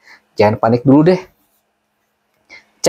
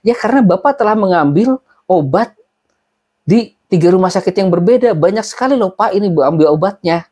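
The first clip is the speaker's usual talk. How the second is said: retold angry reply; 5 semitones higher than usual. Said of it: "masih nada marah".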